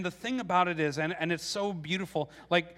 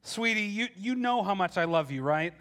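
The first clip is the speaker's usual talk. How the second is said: sweet-talking husband. Pretend. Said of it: "if I came home to her one day and I said".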